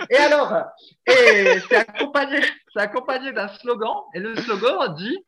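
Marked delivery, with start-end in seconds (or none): 0.1-3.3 words squeezed out through laughter, higher and louder; trying to talk while cracking up; laughing. Real, not acted. Host describing the ad, laughing helplessly.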